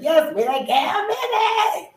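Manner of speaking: high, drawn-out delighted yell-back; lit, excited. Retold or imitated. Confirming the podcast name to a fan, lit. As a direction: whoop it slowly with a laugh. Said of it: "I was already lit".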